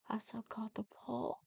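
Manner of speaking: soft whispered aside. Acted. Grandma whispers a fact to the child. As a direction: share it like a little secret.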